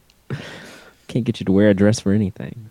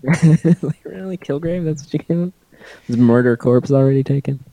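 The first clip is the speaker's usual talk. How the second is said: incredulous; 5 semitones higher, 3 dB louder than usual. Real, not acted. Mocking incredulity.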